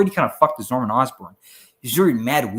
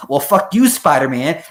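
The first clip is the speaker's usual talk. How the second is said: mock Goblin taunt; 2 semitones higher, 8 dB louder than usual. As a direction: fling it at Spider-Man as you go. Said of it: "Green Goblin in Spider-Man One just goes".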